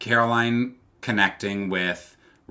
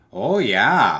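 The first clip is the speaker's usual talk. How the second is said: put-on, imitated Midwestern accent; 6 dB louder than usual. Imitating a contestant's way of talking: imitating a Midwestern accent.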